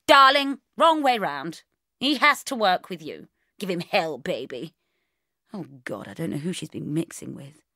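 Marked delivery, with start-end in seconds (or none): 0.1-4.7 louder, breezy no-nonsense mum; brisk bossy mother. Acted. Mother on the phone rallying her daughter, bossy and brisk. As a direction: sweep her daughter's tears aside briskly.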